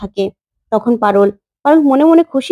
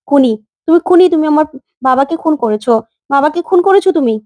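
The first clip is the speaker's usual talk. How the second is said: raised, higher voice crying out murderer; accusing child; 3 semitones higher than usual. Acted. Child confronts father's killer, shouting accusation. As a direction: hurl the accusation at her.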